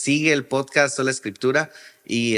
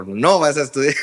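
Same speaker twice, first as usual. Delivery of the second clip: mock outburst, louder and laughing; alarmed grandfather; 5 dB louder than usual. Grandson retelling his pastor grandfather's refusal, mock alarm. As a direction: lightly imitate a dismayed grandfather. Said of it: "se agarró la cabeza y me dijo".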